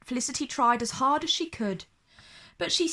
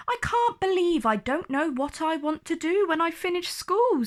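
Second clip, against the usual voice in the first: nervous; 5 semitones higher than usual. Acted. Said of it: "said Felicity nervously".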